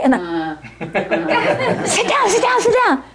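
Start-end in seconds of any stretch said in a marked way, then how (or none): 1.8-3.0 high, laughing urgent hush; laughing plea. Retold or imitated. Students pulling the monk back down, laughing. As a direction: urge him down through laughter. Students urging Geshe to sit.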